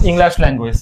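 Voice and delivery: "English" with an open "-lash" ending; corrected pronunciation. Shown as a demonstration. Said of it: "উচ্চারণ বলতে হবে". ("English"-কে "ইংল্যাশ" উচ্চারণ)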